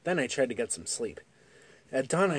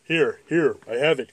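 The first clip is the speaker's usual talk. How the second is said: crying out; 5 dB louder than usual. Acted. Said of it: "cried my little brother".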